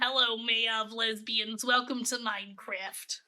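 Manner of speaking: slow, drawn-out granny voice; a tired, giggly old lady at a sleepover. Acted. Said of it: "It's when I go like this".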